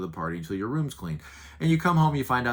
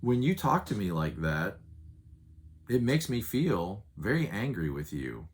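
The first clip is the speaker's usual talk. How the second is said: controlled and loving, no raised voice; calm, sincere talk. Shown as a demonstration. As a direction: tell your child how you feel, gently. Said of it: "communicating it to you and saying".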